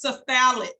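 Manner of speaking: cephalic said suh-FAL-ik, stress on the middle; demonstrated pronunciation. Shown as a demonstration. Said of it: "which is pronounced".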